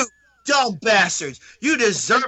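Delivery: a real shout of nerd rage; angry outburst. Real, not acted. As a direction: spit it out as a furious insult. Ranting at Marvel's Mandarin.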